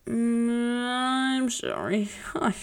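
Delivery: teasing whisper; whispered sorry. Acted. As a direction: whisper it sheepishly. Whispered apology.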